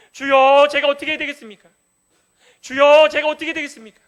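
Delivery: crying out "주여" in loud desperation; a mourner wailing before God; loud anguished plea. Acted. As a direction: beg God at full voice. Voicing lament, crying out.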